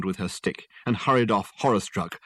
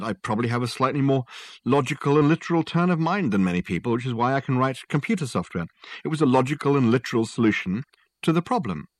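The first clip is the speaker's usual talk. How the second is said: defensive Richard; 4 semitones higher than usual. Acted.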